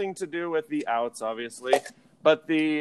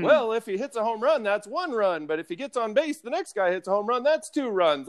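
higher-pitched pretend expert on the phone; Billy Beane; 5 semitones higher than usual. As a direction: explain the obvious in a put-on high voice. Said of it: "you were gonna be Billy Beane".

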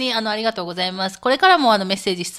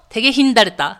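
louder Miyazaki-dialect demo, tege hindareta; 6 dB louder, faster than usual. Shown as a demonstration. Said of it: "宮崎弁で言うと". (宮崎弁で強めに)

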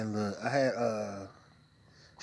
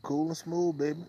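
cool and smooth; 4 semitones higher, 4 dB louder than usual. Acted. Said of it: "come cool as shit".

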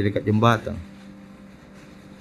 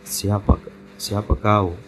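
lightly voiced spirit, lower pitch; hint of a possessed woman, low; retold possession voice, slightly lowered; possessed aunt; 4 semitones lower, much slower than usual. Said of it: "Kamu kesurupan Ki Maceku".

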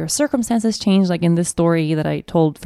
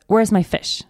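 demanding; 4 semitones higher, slower than usual. Retold or imitated. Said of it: "he's demanding the fish".

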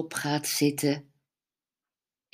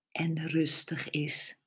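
soft spa whisper; 7 dB quieter than usual. Acted. Whispered relaxation cue.

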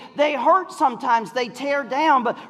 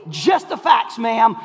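Joe Friday; slower than usual. Retold or imitated. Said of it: "Joe Friday from Dragnet".

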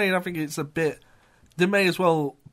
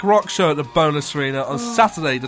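radio DJ voice; 3 semitones lower than usual. Acted. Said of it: "I'm trying to do the radio here".

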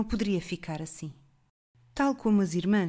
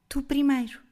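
jovem firme; 6 semitones higher than usual. A narrator's reading. Girl refuses firmly.

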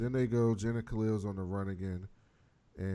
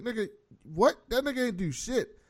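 high, loud what in disbelief; outraged disbelief; 11 semitones higher, 4 dB louder than usual. Retold or imitated. Host outraged at Black Lightning wrecking the car. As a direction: protest it, outraged.

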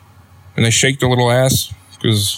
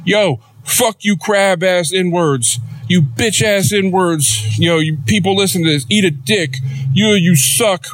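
higher, slow mock rapper taunting; mock rapper hype; 7 semitones higher than usual. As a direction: hype man yelling at the fans, hammed up. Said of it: "just being like".

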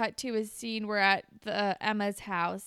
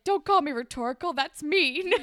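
whiny Jay; 6 semitones higher, 6 dB louder than usual. Retold or imitated. Acting out Jay's whiny retort.

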